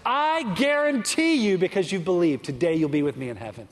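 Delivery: firm guarantee. Retold or imitated. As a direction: lean on guarantee, then settle down gently. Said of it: "the only words that Jesus had to say".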